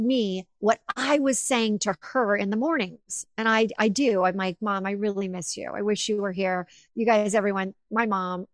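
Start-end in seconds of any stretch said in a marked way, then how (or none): 4.6-6.7 soft, understated retold plea; tender longing. Daughter talking to her late mom each morning, softly longing. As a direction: say it softly, as a private wish.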